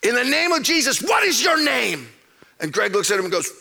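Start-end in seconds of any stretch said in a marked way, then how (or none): 0.0-2.1 TV evangelist. Retold or imitated. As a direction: cast out demons like a TV preacher. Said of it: "just like a T V evangelist".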